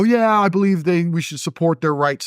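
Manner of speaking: lightly mock a timid ally; mocking straight people. Mocking people who back LGBT rights, high mock voice. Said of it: "who will sit there and go".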